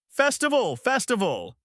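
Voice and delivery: very high chant of a crowd; loud cheering. A narrator's reading. Crowd in the dew festival, cheering. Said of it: "grew even louder".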